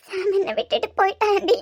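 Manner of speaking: tearful sobbing. Acted.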